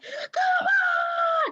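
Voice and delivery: high yelled challenge to the shark; retelling a movie heroine's high-pitched dare; mock battle yell. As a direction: shout it like a hero taunting a beast. Character taunts shark, calling out.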